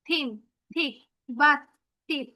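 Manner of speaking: "থিন, থিক, বাত, টিপ" with TH as Bengali "থ"; TH sound demo. Shown as a demonstration. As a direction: say each "থ" word separately. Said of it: "থ এর মতো".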